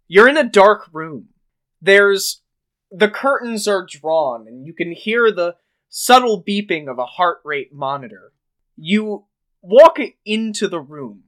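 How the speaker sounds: storyteller painting a dark hospital room; game master scene setting. Acted. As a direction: set a grim scene for the players. The speaker opens the game scene.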